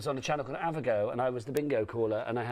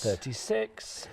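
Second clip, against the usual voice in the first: drawn-out bingo number call; bingo caller; much slower than usual. Acted. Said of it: "takes me back to my bingo calling days".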